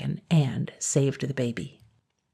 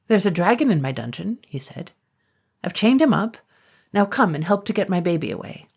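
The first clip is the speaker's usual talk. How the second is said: urgent, raised plea; 3 semitones higher than usual. Acted. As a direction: push the news out urgently. Blacksmith pleading to mayor.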